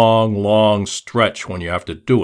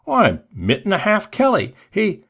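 much higher, timid answer; high fawning joint keeper; 10 semitones higher than usual. A narrator's reading. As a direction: blurt it out timidly, pitched up. Turkey Neck answers.

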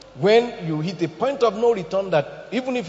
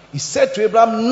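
preaching shout; 3 semitones higher, 6 dB louder than usual. Acted. Preaching at full force.

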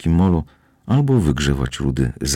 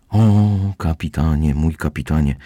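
dreamy sigh. Acted. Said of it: "rozmarzyła się Lola".

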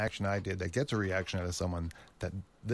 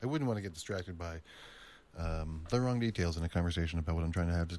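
slight lisp on s sounds; talking with a lisp; 2 semitones lower than usual. Real, not acted. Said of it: "I'm gonna keep doing the stupid lisp thing".

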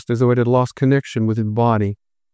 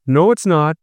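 countering; 4 semitones higher than usual. Acted. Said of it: "I countered".

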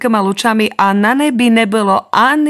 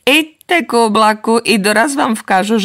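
ordinary delivery, nothing marked

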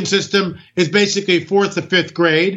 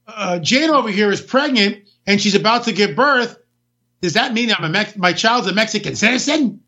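mock migrant; 3 semitones higher than usual. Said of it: "do exactly the same thing".

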